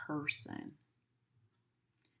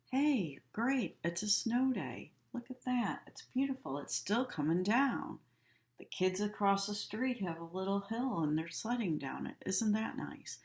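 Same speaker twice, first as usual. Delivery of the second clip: bright, much higher, cheerful; happy; 5 semitones higher than usual. Shown as a demonstration. Teacher showing a happy face, high and cheerful. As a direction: gush about the snow day. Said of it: "Do we look happy?".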